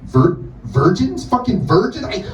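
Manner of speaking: high, squealing outrage, rising to a shout; outraged rant. Pretend. Outraged rant at heaven assistant.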